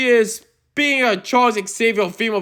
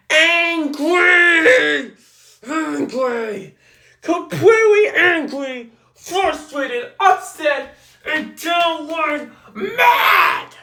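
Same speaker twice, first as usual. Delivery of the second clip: angry yelling; 3 semitones higher, slower than usual. Real, not acted. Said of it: "did not hear me screaming out loud or yelling".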